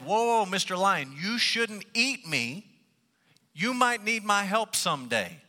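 lightly hammed-up high plea; pleading mouse. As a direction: plead for your life in a high storyteller's voice. Mouse pleads with lion not to eat it.

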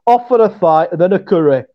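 broad Yorkshire vowels; Yorkshire accent. Shown as a demonstration. Yorkshire co-host models a phrase for his friend, in Yorkshire accent. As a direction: say it like a Yorkshire native. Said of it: "get to, like, halfway between a Yorkshire accent".

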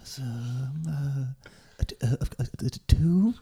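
halting, dim-witted hesitation; stumped. Acted. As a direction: stammer through the sum as if baffled. Stumped by a simple sum.

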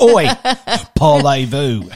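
hammed-up French accent, laughing; a playful stab at a French accent; mock French accent. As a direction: toss it off in a jokey French accent. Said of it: "put on my French accent".

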